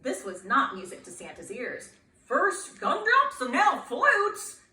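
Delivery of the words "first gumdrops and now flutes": exasperated Santa. Acted. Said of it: "thought Santa".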